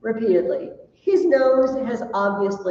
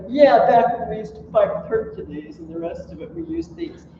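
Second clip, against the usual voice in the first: put-on old boxer boasting; 5 dB louder than usual. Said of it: "It's like".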